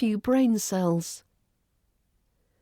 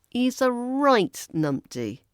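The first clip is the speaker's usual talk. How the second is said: "right" hit hard, slow delivery; stress on right; 4 semitones higher than usual. Shown as a demonstration. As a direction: punch the word "right". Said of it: "You could stress right".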